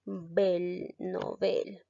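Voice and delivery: "bel" held out, then "novel" with final stress; stressed syllable demo. Shown as a demonstration. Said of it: "¿Dónde lleva la mayor fuerza de voz?".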